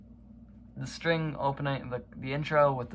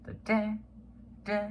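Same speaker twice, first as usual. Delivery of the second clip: mock horn; 11 semitones higher than usual. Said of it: "it's the horn".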